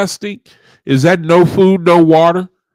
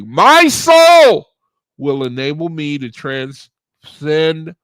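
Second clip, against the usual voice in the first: affirmation recital. Acted. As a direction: declaim it, soaring on the key words. Recites affirmation a last time.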